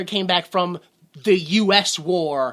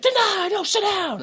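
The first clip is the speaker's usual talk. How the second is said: mock stern father; 13 semitones higher than usual. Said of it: "And he's like".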